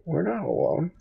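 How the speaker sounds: hushed, voiceless whisper; mock secretive whisper. Player warns friend that One Shot's here, secretive whisper.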